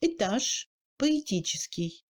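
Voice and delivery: "étage, поэтический" with E close to ы; reduced E. Shown as a demonstration. Teacher showing reduction, "étage, поэтический" with ы-like E. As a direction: shift unstressed E towards ы in "étage, поэтический". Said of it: "ressemble un peu à un U".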